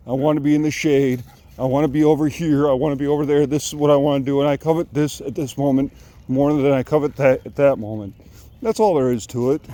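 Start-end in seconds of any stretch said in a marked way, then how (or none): 4.4-9.6 breathless from walking; out of breath. Real, not acted. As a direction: talk while short of breath. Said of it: "I'm out of breath".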